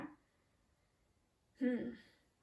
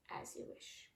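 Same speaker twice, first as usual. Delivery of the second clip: whispered; 9 dB quieter than usual. Acted. Ruler's proclamation read aloud.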